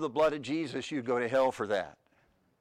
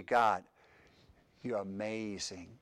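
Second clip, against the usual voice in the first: slow, much softer words of wonder; hushed awe; 5 semitones lower, 6 dB quieter, slower than usual. Acted. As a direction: breathe it out in quiet amazement. Quiet awe toward God.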